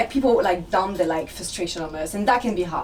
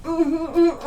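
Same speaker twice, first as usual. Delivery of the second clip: cozy mock hum; 5 semitones higher than usual. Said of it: "like that".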